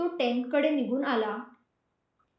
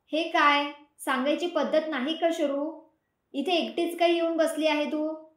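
mild raised shout, pitch up; 3 semitones higher than usual. Acted. Sameer scolding Sharvari for wandering off alone, mild shout. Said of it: "Sameer ओरडला".

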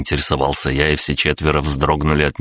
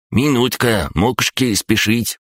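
high-pitched creature voice; high, protesting crab gnome; objecting crab-gnome; 8 semitones higher than usual. A narrator's reading. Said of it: "возразил крабогном".

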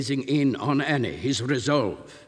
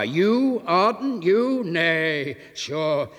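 much higher, louder incredulous cry; landlady shrieking in disbelief at the stranger; half hysterical cry; 7 semitones higher, 6 dB louder than usual. Acted. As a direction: gasp in disbelief. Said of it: "half hysterical cry".

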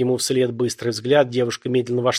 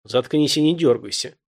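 loud bark; 2 semitones higher than usual. Acted. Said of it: "громко рявкнул".

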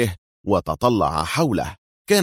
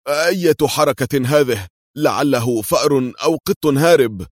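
calmly yawning; 6 semitones higher, 3 dB louder than usual. A narrator's reading. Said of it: "قال بهدوء وهو يتثاءب".

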